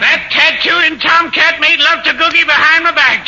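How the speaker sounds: comic jealous rage at a rival; indignant outburst. Acted. Accused bursts out against his rival.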